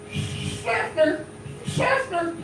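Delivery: Schaffner said high with a long hissed sh; hick town pronunciation. Shown as a demonstration. Comic shows crowd how to say his Florida hometown, hick pronunciation. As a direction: say Schaffner high-pitched, leaning on the sh. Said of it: "you gotta say it like that".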